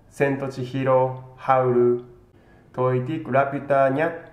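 ordinary delivery

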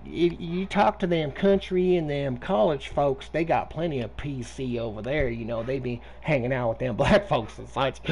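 Southern yokel accent, hammed up to troll a scammer; mock Southern hick. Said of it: "I'm gonna get so Southern as fuck".

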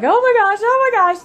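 high, loud mock panic; squealing oh my gosh, hammed up. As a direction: imitate a kid panicking over a snakebite. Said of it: "and he's like".

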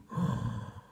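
short audible intake of breath; gasp. A narrator's reading. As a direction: gasp at the discovery. Reader gasps at the horseshoe find.

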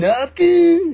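loud, high, incredulous Jersey echo; put-on Jersey accent. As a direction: throw it back in disbelief, Jersey style. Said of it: "I ain't got no Jersey accent".

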